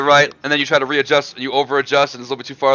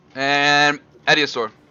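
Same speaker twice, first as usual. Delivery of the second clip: normal talking voice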